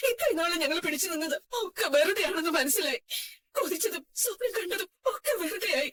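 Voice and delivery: a mother's words breaking into tears; tearful mother. Acted. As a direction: speak through tears, let down by her son. Mother scolds son over drinking. (കരച്ചിലോടെ സംസാരിക്കുന്ന അമ്മ)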